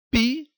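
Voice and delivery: Pi set apart high and loud as its own syllable; syllable split out. Shown as a demonstration. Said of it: "nós temos uma sílaba".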